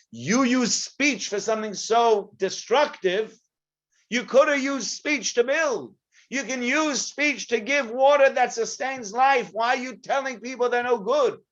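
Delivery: high, slow, urgent preaching; impassioned preaching. Acted. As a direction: plead for speech that builds. Preaching what Moshe should say.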